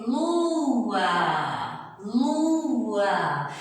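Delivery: Lua with u and a sounded fully, two syllables; vowels heard apart. Shown as a demonstration. Teacher sounding out lua for pupils. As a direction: let both vowels ring in Lua. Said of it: "Eu ouço o som do U e ouço o som do A".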